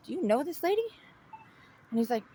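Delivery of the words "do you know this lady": high-pitched call to a stranger. Retold or imitated. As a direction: hail him from a distance. Calling to a passing stranger.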